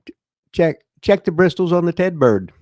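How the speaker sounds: lightly voiced Cockney phrase; Cockney slang demo. Shown as a demonstration. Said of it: "You'd say".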